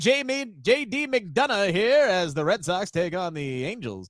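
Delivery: baseball play-by-play announcer voice; frantic mock sports commentary. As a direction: call the game like a TV broadcaster. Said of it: "sounds like a sportscaster's name".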